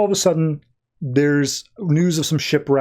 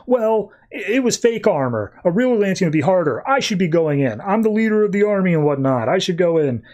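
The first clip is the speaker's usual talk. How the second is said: whiny objection; 5 semitones higher than usual. Retold or imitated. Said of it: "just being like".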